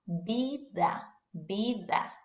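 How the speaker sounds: "vida" starting with a B sound. Shown as a demonstration. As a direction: say the V of vida as a soft B. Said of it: "the V sounds just like a B".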